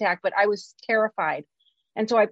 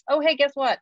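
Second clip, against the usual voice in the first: excited; 6 semitones higher than usual. Retold or imitated. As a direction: burst out with delighted pride. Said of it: "I'm like".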